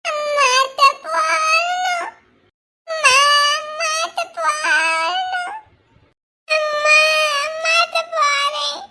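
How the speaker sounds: slow, tearful wail for mother; slow crying plea to go to mother; crying for mom. Acted. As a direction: sob it out like a lost child. Child crying for mother at school.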